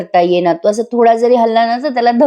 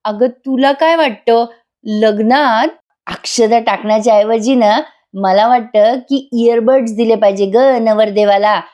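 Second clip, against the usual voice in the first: fed-up husband; 2 semitones higher, slower than usual. Retold or imitated. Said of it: "वैतागून म्हणतो".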